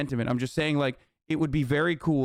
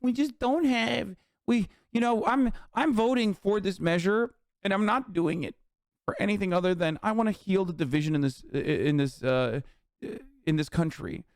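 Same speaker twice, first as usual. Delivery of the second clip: mocking Democrats with a higher, pleading put-on voice; 4 semitones higher than usual. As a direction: ham up a spineless Democrat making excuses. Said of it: "the Democrats are gonna be like".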